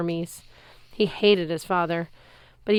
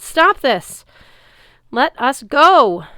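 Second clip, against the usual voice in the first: high, much louder shout; yelling; 7 semitones higher, 12 dB louder, much slower than usual. Acted. Annabeth demanding Luke free them, high loud shout. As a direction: scream it at him, desperate. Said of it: "Annabeth yelled".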